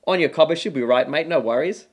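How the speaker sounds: lightly exaggerated Australian accent; put-on Australian accent. Shown as a demonstration. Australian guest showing his put-on accent, hammed-up Australian. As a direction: lay on a fake-sounding Aussie accent. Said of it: "That's me putting on an Australian accent".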